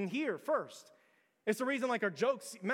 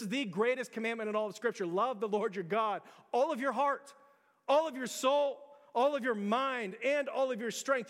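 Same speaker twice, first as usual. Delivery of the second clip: louder, higher, proclaiming each line; preaching at full force; 4 semitones higher, 4 dB louder than usual. Real, not acted. Pastor proclaiming the great commandment to the congregation, full force. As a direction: ring out the commandment to the church.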